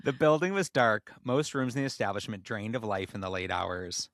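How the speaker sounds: measured storyteller reading; measured storyteller reading a tale aloud; story narration. A narrator's reading.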